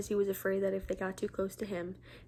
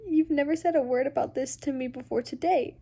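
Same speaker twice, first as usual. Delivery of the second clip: Henry protesting; 4 semitones higher, 5 dB louder than usual. Acted. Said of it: "he said".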